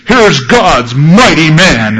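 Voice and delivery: hammed-up emcee voice; mock fanfare introduction. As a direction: announce him like a showman.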